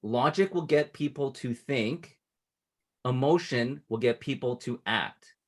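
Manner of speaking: slow, weighty, each half landed; slow emphatic quote. Shown as a demonstration. Coach stating the closing quote to client, slow and weighty. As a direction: deliver it like a maxim. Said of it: "this quote".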